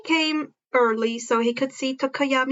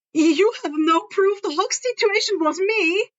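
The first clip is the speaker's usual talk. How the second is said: louder, higher retort; raised heated protest; arguing; 7 semitones higher, 3 dB louder than usual. Acted. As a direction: throw it as an argument line. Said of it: "two voices arguing".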